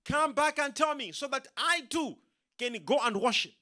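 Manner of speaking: a hint of a two-faced Herod; scheming Herod. Herod plotting with the magicians, sly voice. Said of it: "Herod said".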